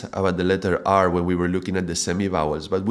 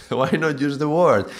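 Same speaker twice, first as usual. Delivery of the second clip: rising excitement; 7 semitones higher than usual. Real, not acted.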